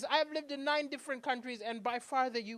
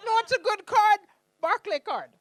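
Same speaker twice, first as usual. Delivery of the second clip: playful; 10 semitones higher, 12 dB louder than usual. Retold or imitated. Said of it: "I was like".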